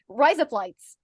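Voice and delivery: "Rise up lights" as Aussie "razor blades"; Australian accent. Shown as a demonstration. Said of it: "if you wanna say razor blades".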